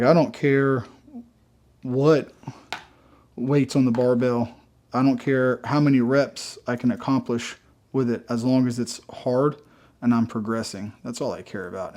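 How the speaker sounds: out of breath after cardio. Real, not acted. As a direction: talk while catching your breath. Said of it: "yes, I'm breathing a little hard".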